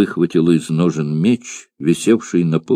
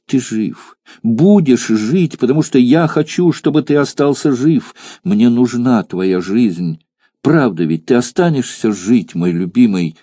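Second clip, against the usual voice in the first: higher, pleading, loving insistence; passionate exclamation; 4 semitones higher than usual. Acted. Mirtsa fervently pleads with her dying lover, higher pitched. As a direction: beg him to live with fervent love. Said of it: "воскликнула в порыве горячей любви".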